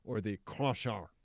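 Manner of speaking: bad Russian accent on crusher immediately. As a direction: try a clumsy Russian accent. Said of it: "is that a Russian accent".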